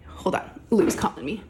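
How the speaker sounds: hushed aside, barely voiced; quick whisper. Real, not acted. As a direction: whisper it so the camera barely catches it. Quick aside to off-camera daughter.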